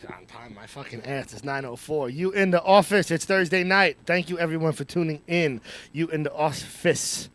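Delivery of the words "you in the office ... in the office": punchy host intro, loud at the top; show-opening announcer. Real, not acted. Host welcomes everyone tuning in, announcer delivery.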